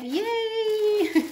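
high, bright little cheer of delight; excited squeal. Real, not acted. Opening happy mail for viewers, excited squeal. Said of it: "I'm so excited".

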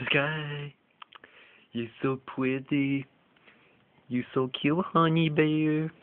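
slow, high cooing at the dogs; puppy talk. Real, not acted. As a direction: croon to the pups. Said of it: "you love all this little puppy talk".

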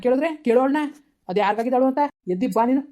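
father yelling at his daughter; angry scolding. Acted. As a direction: order her up in rage.

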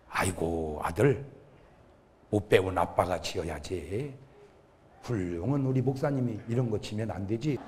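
very low, soft imitated father; humble father. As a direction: gently decline the son's help in a low, hushed voice. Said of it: "우리 아버지가".

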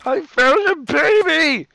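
put-on a light child voice calling out; kid calling mom. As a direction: show mom your treasure. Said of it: "my daily life at my home".

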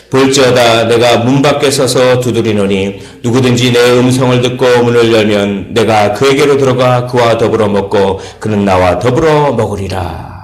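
loud, even-pitched verse reading; scripture recitation. Real, not acted. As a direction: lead the congregation in reciting the verse. Leads verse reading aloud.

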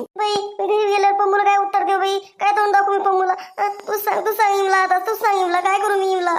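tearful acted lament; mild weepy pleading; crying. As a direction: wail helplessly to your companions. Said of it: "तू रडू नको, सुकूबाई".

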